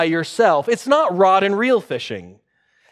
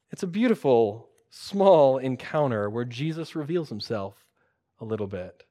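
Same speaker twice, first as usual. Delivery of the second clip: hushed whisper; 6 semitones lower, 6 dB quieter than usual. Acted. Pastor hushes the congregation over Jesus' quiet reveal, whispering. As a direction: whisper it, softer and lower.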